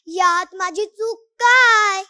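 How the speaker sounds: indignant. Acted. Child asking audience what her fault was, indignant and slow. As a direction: protest her innocence.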